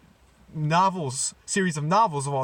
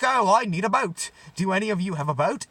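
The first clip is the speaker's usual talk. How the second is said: badly faked British accent; hammed-up British gnome asking around; Johnny Depp; 2 semitones higher, faster than usual. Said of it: "I can't do a British Johnny Depp accent".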